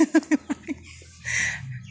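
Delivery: an airy laugh at her own joke; breathy giggle. Real, not acted. Vlogger laughing after mimicking an annoyed monk, breathy giggle. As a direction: let a quick unvoiced giggle slip out.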